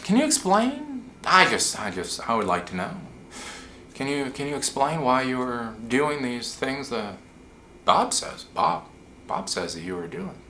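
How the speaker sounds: lightly acted, halting polite probing; old guy's questioning. Old guy asking someone to explain, mildly and haltingly. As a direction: open high, then settle into measured questions with pauses. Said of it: "with how they ask questions".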